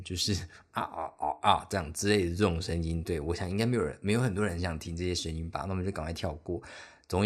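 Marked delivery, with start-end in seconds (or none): 0.7-1.7 hammed-up suggestive groans; suggestive moans. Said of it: "蛮色的声音".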